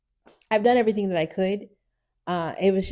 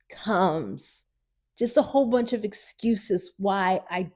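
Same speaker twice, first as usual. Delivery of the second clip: near tears; 3 semitones higher than usual. Real, not acted. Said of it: "I'm about to cry".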